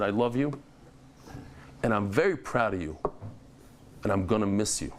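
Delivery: low, measured fatherly sincerity, retold; tender father. Father telling his son he is proud, tender and low. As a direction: imitate a father gently opening up, pausing between phrases.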